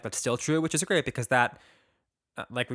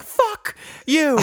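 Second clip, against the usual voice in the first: higher, louder pretend fury; mock angry outburst; 8 dB louder than usual. Cohost imagining the man's reaction to creamy, mock furious. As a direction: snap it out in fake rage. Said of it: "He's like".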